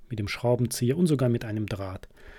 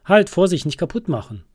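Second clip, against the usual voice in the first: much higher, louder alarmed cry on Halt; alarmed shout; 6 semitones higher, 7 dB louder than usual. Acted. Sheep rushing in to stop the friends, alarmed shout. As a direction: shout a sudden warning. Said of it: "ruft es".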